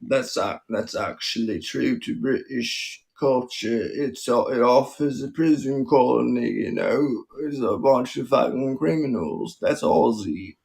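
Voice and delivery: put-on shaky-grounded Aussie accent drifting into drunken Cockney; mock Aussie, part Cockney, part posh; attempted Aussie accent. Comic answering a critic of their British-sounding T, attempted Aussie accent. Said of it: "You sound like a drunken guy who's Cockney, but also posh".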